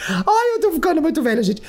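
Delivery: high, fast, half-laughing wail; laughing cry. Real, not acted. Overwhelmed by the stripper story, laughing and wailing.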